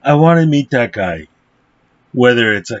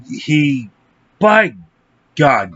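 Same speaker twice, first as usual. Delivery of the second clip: usual speaking voice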